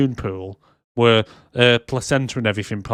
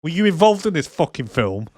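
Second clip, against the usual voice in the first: sarcastic quote; 4 semitones higher, 4 dB louder than usual. Retold or imitated. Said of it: "And then she goes".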